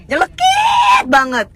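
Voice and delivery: NYELEKIT drawn out in a very high squeal; slow, squealed stress on Nyelekit; exaggerated emphasis. Shown as a demonstration. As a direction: stretch NYELEKIT long and piercingly high. Exaggerates how cutting calm talk is.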